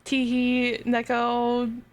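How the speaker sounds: cute anime voice. Retold or imitated. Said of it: "with the cute, like".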